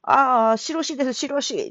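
put-on high old grandpa saying his name as shiroshi; old man introducing himself as shiroshi; grandpa's dialect. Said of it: "火が死になっちゃうんですよ".

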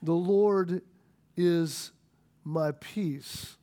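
reverent. Real, not acted. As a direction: let it sink in, reverently. Naming the altar Jehovah Shalom.

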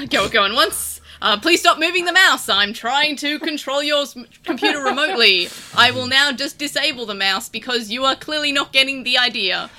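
hammed-up pushy tech helper; auctioneer IT support. Imagined IT helper scolding a caller, mock auctioneer. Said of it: "and I'd be like".

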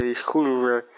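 put-on drunk voice calling an ex. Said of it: "Me sale bien la voz de borracho".

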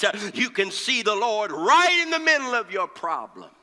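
impassioned pulpit preaching with punched key words. Real, not acted. Preacher telling the congregation of Isaiah's vision, impassioned preaching. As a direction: preach it hard, phrase by phrase.

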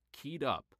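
lifted pitch, punch on up; keyed up and eager. Shown as a demonstration. Reading positive feelings aloud, eager and lifted. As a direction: say it like you can't wait. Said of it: "same words, positive list".

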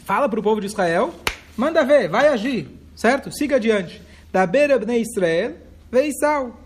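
loud, high urging command; God ordering Moshe to act; commanding shout. Retold or imitated. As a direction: push him forward with a big shout. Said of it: "Deus deu uma resposta".

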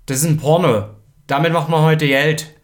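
loud, leering pitch for a shady deal; sleazy consultant. Acted. Consultant pushes porn onto the print shop, leering. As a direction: push the porn deal like a slick salesman.

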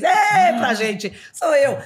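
loud, slow laughing call; mock a stranger waving back; laughing shout. Imagined reply from crowd. (grito risonho e arrastado)

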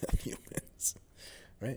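ordinary delivery

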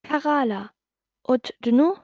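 put-on goblin girl answering in backwards talk; backwards speech. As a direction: backwards gibberish reply. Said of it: "sagte die Stimme".

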